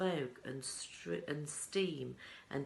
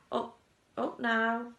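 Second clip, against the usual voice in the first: higher, slow coaxing call; eager Wonka; 7 semitones higher, 7 dB louder than usual. A narrator's reading. Wonka urging the children onward, excited. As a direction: hurry them along with delight.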